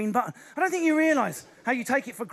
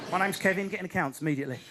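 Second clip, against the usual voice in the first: mock accountant, lower pitch; British office Kevin; 3 semitones lower, faster than usual. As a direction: dull British accounts clerk act.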